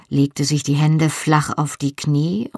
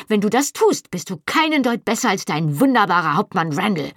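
furious shouting back; 6 semitones higher than usual. A narrator's reading. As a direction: tear into him in a high, indignant voice. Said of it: "und brüllte zurück". (empört und wütend, mit hoher Stimme)

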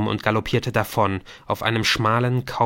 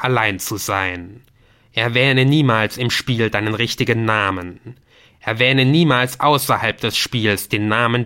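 slow, emphatic game master laying down rules; stern game voice; 5 dB louder than usual. Acted. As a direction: pronounce each rule like a warning. (strenge, langsame Stimme des Spiels)

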